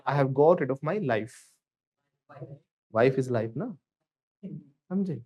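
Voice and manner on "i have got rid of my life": slow, clear model line; slow repeat for students. Shown as a demonstration. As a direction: say it slowly again for the class. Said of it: "Once again".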